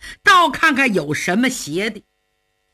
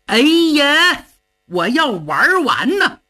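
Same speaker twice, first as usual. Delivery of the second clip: panicked cry; 3 semitones higher than usual. Acted. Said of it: "他可急坏了".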